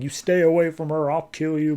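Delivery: mildly heated protective warning; mock freak-out. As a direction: imitate someone warning an attacker off. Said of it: "He's, like, freaking out".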